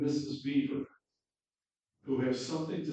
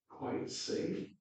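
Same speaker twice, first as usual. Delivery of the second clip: timid whisper; 7 dB quieter than usual. Acted. Lucy's timid question.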